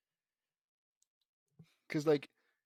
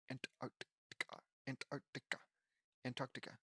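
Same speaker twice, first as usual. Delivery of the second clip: whispered; 12 dB quieter than usual. Shown as a demonstration. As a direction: whisper Antarctica to yourself as if tasting it. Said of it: "I never realized how strange it was to say".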